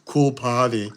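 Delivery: rough Arnold accent on a pun; amateur take on Arnold's accent. Shown as a demonstration. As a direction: try a bad Arnold accent. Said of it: "I can't do an Arnold accent, but I'll try".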